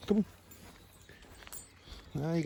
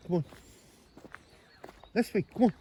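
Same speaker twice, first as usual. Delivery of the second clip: higher, louder call to the dog; high coaxing dog call; 9 semitones higher, 3 dB louder, faster than usual. Real, not acted. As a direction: call him back to you down the path. Calling the dog on walk.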